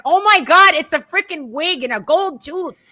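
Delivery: high, incredulous retold outburst; hammed-up disbelief at someone clueless; mock exasperation. Retold exasperation at oblivious commentator.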